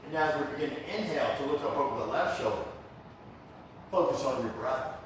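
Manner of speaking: unhurried breathing cues with pauses; calm yoga teacher's guiding voice; guided yoga instruction. Real, not acted. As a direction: lead the class gently into the breath. Leads yoga class.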